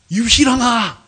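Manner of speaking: shouted summons by name; calling out. Retold or imitated. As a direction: call the name out forcefully. Calls the name out again.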